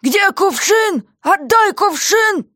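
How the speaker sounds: jailer's voice, clearly put on; gruff jailer. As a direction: play the surly jailer shouting down. Guard voiced by reader.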